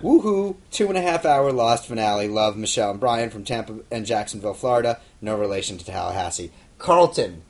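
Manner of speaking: theatrical mailbag read, hitting the questions hard; reading fan mail aloud. Acted. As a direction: read a fan's letter out with playful emphasis.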